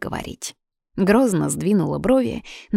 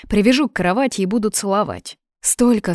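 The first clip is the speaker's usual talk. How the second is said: fast, rising, louder teasing menace; playful threat; 4 semitones higher, 4 dB louder than usual. Acted. (игривая угроза)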